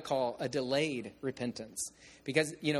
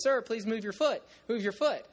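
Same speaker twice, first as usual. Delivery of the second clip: put-on pleading boy; 7 semitones higher, 3 dB louder than usual. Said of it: "so he comes up and goes".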